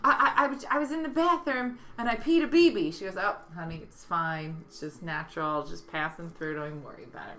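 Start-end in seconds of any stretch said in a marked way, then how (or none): 0.0-2.9 put-on slightly raised, stammering child's confession; a hint of a worried little boy; lightly voiced boy. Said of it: "the first boy comes running". 3.2-7.4 softer, lightly acted motherly soothing; reassuring mom. Mom reassures her son.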